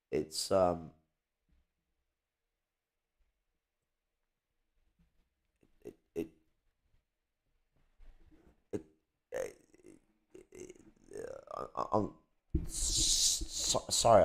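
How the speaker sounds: soft, very slow, breathy, halting stammer. Speaker trying not to cry on camera, stuttering. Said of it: "I keep breaking into stutters".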